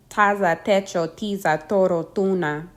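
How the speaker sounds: Taza, techo, tiza, toro, tuna with T as in sting, no puff of air; unaspirated T. Shown as a demonstration. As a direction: say toro and tuna without aspirating the T. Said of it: "not followed by the puff of air".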